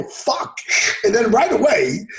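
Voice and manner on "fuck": whispered curse. Retold or imitated. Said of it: "And I go".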